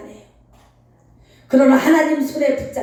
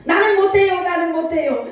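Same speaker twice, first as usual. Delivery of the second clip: retold crying plea; 4 semitones higher than usual. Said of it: "펑펑 울면서".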